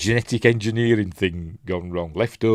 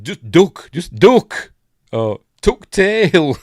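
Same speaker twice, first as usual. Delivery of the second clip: high, loud "duck" call; higher and louder, playfully urgent; mock warning shout; 9 semitones higher, 9 dB louder, slower than usual. Acts out the warning he wanted shouted.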